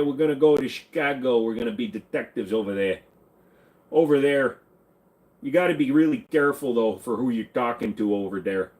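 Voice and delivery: broad, put-on Chicago accent. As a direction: play a chatty Chicago local with the accent. Putting on a Chicago regional accent.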